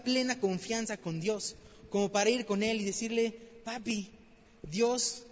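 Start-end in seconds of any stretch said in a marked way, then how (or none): 3.6-5.2 tender prayer. Retold or imitated. Intimate prayer to God.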